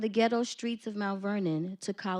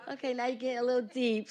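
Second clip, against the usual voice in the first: fast, higher, amazed inner voice; impressed self-quote; 5 semitones higher, 3 dB louder, much faster than usual. Retold or imitated. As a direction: rattle it off, caught off guard by their depth. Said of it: "because I was like".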